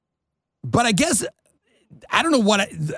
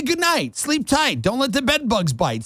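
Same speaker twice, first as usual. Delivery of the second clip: mock sweet bedtime; 6 semitones higher than usual. Sing-song bedtime rhyme.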